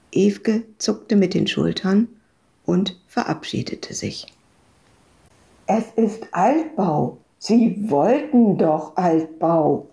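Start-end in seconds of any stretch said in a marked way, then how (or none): 5.7-9.9 distant-sounding call, drawn out; calling after someone. A narrator's reading. Landlord to departing Ewke, calling after her. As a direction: stretch the words as if calling down a stairwell. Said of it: "hörte sie den Vermieter hinterherrufen".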